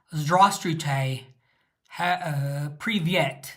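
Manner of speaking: mock British accent, slow and stiff on "Здравствуйте"; British accent in Russian. Imitating British learners mangling Russian greetings, in a mock British accent. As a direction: drag out "Здравствуйте" in a clumsy British accent, then "привет". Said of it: "they sound really weird".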